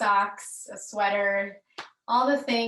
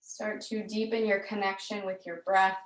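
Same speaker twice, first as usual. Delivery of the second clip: calm, measured yoga-class delivery with long pauses; guided yoga instruction; 3 dB louder than usual. Real, not acted. Yoga teacher leading students through gentle movement, calm guided instruction.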